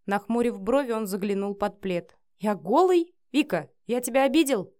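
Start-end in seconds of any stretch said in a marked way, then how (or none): 2.4-4.7 higher, anxious questioning; a touch of panic; alarmed. A narrator's reading. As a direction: ask in sudden worry. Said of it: "Испугался он не на шутку".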